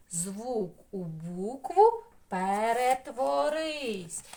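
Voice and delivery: slow, stretched-out incantation; magic spell. Pretend. Teacher turning a sound into a letter, chanted spell. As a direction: draw out every word like casting a spell.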